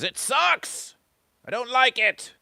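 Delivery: very high-pitched squeal of dislike; shrieky mock rejection. Goat versus Fish voicing harsh rejection.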